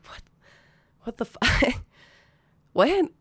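a stunned, rising what the fuck; shocked disbelief. Retold or imitated. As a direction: voice jumping up high in disbelief. Reacting to friend being stabbed.

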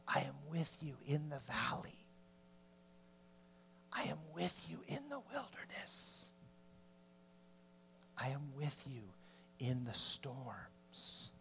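very soft, hushed comfort; God's reassuring whisper. Acted. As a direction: murmur it close, as God to the suffering. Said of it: "God whispers because he's close".

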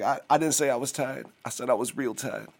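Jay-Z voice. Retold or imitated. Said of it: "He's like".

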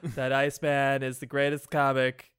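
lightly put-on politician's boast; mock boastful politician. Boasting that Iceman is the greatest comic, mock politician. Trump parody after fake news joke.

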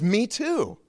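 high, eager agreement; acted thrill at finding common ground; delighted discovery. First man to a fellow Christian, high delighted agreement.

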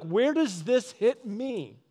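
meditative self-questioning. Shown as a demonstration. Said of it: "meditate on it and be like".

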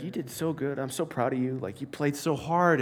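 soft, lightly voiced proud dad; gentle, low-key praise from a dad; retold fatherly reassurance. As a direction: reassure your child quietly. Gentle father consoling his child, retold.

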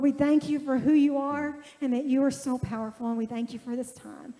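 heartfelt spoken prayer to God; earnest prayer. Real, not acted. Pastor praying for the guest before his testimony, earnest prayer voice. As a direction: pray it out over the congregation, sincere and steady.

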